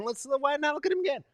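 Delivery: ordinary delivery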